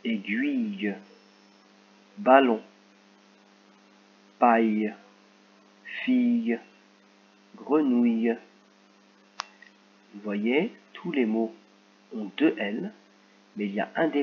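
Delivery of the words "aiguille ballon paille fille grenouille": careful reading of a list; clear word reading. Shown as a demonstration. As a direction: read each word slowly for the class. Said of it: "on va lire les mots".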